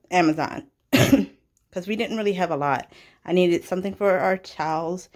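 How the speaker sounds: talking out of breath after running; breathless from running. Real, not acted. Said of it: "I'm out of breath".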